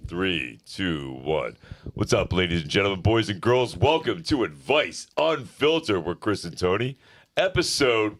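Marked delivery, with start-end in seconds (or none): 1.9-8.2 hyped podcast intro, stretched out at the end; show announcer. Acted. Host opens the show to the viewers, hyped announcer delivery. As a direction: welcome the audience like a ring announcer.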